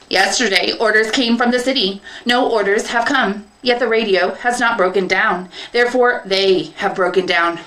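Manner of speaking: deduce it with cold logic; penner robot. Acted. Penner reasoning about the men, robotic.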